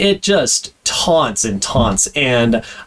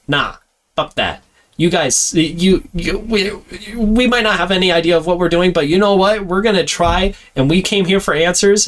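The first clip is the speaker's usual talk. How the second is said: defiant Pike; 7 semitones higher than usual. Retold or imitated. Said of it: "And Pike goes".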